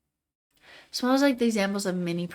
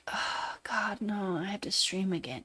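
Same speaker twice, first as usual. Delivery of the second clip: whispered groan; 7 dB quieter than usual. Retold or imitated. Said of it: "I'm like".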